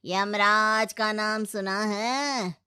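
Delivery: slow, weighty voice of a death messenger; ominous messenger. Acted. Yamdoot announcing himself to the ghostly mother-in-law, slow and ominous. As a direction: let each word land slowly.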